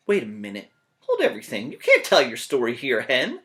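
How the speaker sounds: loud, blustering narrator; lightly voiced pushy narrator; Jack the narrator. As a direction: barge in and stop the story.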